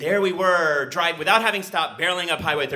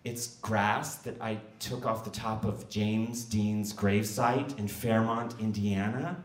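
shaky voice; 4 semitones lower, 5 dB quieter, slower than usual. Retold or imitated. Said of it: "with a shaky voice".

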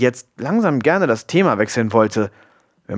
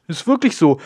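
higher-pitched, eager insistence; insistent exclamation; 8 semitones higher, faster than usual. A narrator's reading. Friend defends her elephant fact, exclaiming insistently. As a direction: call back, standing by the claim. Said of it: "rief Wema".

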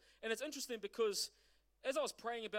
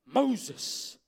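Moses called out loud, falling at the end; God calling Moses from the burning bush; calling by name; 12 dB louder than usual. Acted. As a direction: call Moses firmly by his name. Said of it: "He says".

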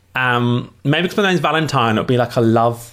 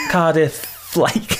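camp attempt at a Welsh accent; 3 semitones higher, much slower than usual. Shown as a demonstration. Guest trying a Welsh accent for the host, camp Welsh. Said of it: "You sound like a gay Welsh singer".

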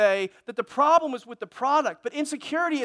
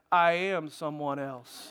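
slow laughing comeback; 7 semitones lower, much slower than usual. Pretend. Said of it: "You know what you can do to just freak 'em out? You say".

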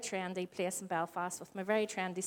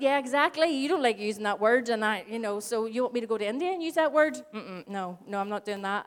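louder, quicker, emphatic comeback; emphatic retort; 4 dB louder than usual. Retold or imitated. Mother firing back at her son, loud and emphatic. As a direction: fire it back at him. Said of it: "And I went".

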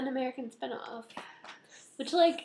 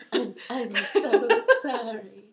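laughing apology; 4 dB louder, slower than usual. Real, not acted. Drawn-out apology to Danielle, laughing.

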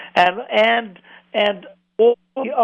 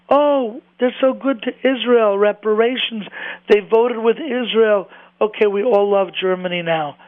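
mock gushing praise, pitched up; sarcastic mimicry; 3 semitones higher than usual. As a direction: imitate naive admirers with exaggerated approval. Mocks those who excuse Germany.

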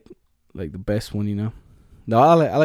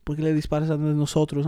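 Dominican Spanish; 4 dB quieter than usual. Retold or imitated. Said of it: "the way they talk".

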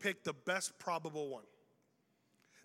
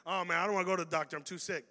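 whiny excuse; 3 semitones lower, faster than usual. Retold or imitated. Friend excuses skipping doctor.

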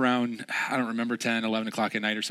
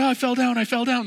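much higher, louder cry of a fallen friend; retold pained yell; 14 semitones higher, 7 dB louder than usual. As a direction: play the buddy who just tripped, loud and high. Friend cries out after falling.

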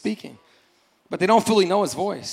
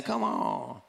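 lower, softer, casual invitation; soft inviting; 7 semitones lower, 12 dB quieter than usual. Retold or imitated. Jesus softly invites Peter onto the water, lower and softer. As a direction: beckon him over gently. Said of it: "I hear him saying".

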